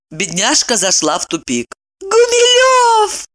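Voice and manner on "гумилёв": high, slow, drawn-out delighted cry. Acted. Evdokia delighted at guessing the name, high and slow. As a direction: savour the discovery. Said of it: "восхитилась Евдокия".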